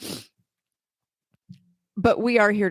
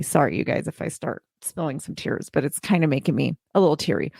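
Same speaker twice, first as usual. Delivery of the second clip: getting teary; 5 semitones lower than usual. Real, not acted. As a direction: voice dropping low as tears come. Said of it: "And I'm getting teary".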